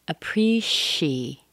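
slow "appreciate", the C said as SH; SH sound in appreciate. Shown as a demonstration. Teacher has learners listen to the sound, SH for C. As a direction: draw out "appreciate" up to a clear SHE. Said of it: "listen to the sound".

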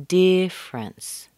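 "difference" slowly as DIFF-rence; missing E. Shown as a demonstration. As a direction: drag out two syllables of "difference", no middle E. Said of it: "The E is missing".

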